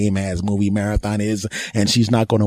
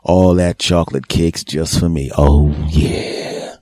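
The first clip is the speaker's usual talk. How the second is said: mock seductive; 5 semitones lower than usual.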